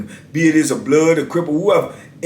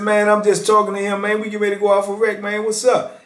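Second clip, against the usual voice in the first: higher-pitched mock complaint; acted-out objection, pitched up; retold protest; 6 semitones higher than usual. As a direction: imitate an inmate pleading his case. Retold inmate protesting to officer.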